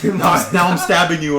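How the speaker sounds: a hint of a demon, slow; lightly voiced demonic threat, slowed down; mild demonic voice. Retelling a creepy ASMR video, a hint of a demon. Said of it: "it became demonic".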